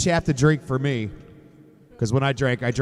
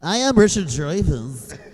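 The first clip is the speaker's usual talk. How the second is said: hammed-up bad actor impression; Richard Dreyfuss; 2 semitones higher than usual. Co-host told he is the actor, bad impression. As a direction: laughingly attempt a famous actor, badly. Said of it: "It's the worst Richard Dreyfuss impression ever".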